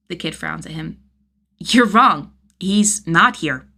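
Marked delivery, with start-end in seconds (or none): 1.6-3.7 put-on stubborn little boy insisting; defiant kid. Kid's dialogue.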